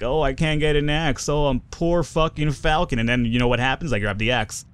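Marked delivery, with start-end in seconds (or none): 0.0-3.0 slightly higher self-mocking whine; poor-me complaint, hammed up a little; mock whining. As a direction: whine in mock self-pity, dragging the end. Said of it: "whining like".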